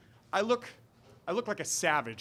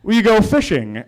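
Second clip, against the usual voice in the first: louder, laughing through it; laughing question; 7 semitones higher, 16 dB louder than usual. Retold or imitated. The stranger's question in the dark, retold laughing. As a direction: crack up mid-line.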